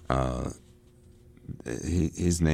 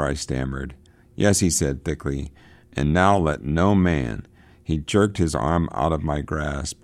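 a touch louder and brighter, reading the novel to the class; reading aloud; 4 dB louder than usual. Acted. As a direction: read the passage out for students. Reads novel passage aloud.

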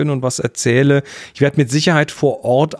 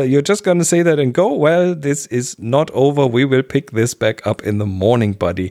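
wild overacting. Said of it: "sagt die, äh, die Luft".

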